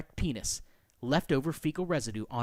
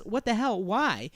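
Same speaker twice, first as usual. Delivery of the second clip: indignant; 6 semitones higher than usual. Acted. Acts the woman's indignant reply.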